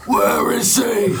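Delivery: loud, slow, high panicked yell; panicked shout. Acted. Improv character shouting to find Batman. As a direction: bellow it out in alarm.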